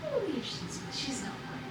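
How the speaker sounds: high then whispered fairy voice; breathy sprite answering a question; mystical pixie voice. Acted. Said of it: "Yo, mystical voice".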